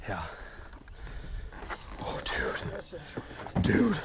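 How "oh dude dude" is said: excited. Real, not acted. Huge fish landed in net.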